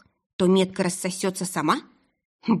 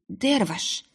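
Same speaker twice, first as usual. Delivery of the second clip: хриплый голос; 2 semitones higher than usual. Acted. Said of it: "прохрипела я".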